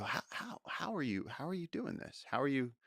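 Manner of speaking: high-pitched, incredulous wondering; acted amazement. Storyteller questioning a clever spider, acted amazement.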